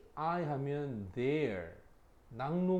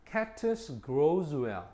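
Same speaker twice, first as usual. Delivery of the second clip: slow reading; 6 dB louder, much slower than usual. Shown as a demonstration. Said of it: "slow example reading".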